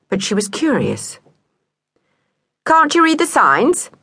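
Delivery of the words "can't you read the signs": stranger cat voice. A narrator's reading. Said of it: "said the cat".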